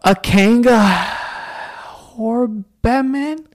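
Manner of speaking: slow drawn-out mock African accent. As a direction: stretch it out in a playful African accent. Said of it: "saying it, like, an African accent?".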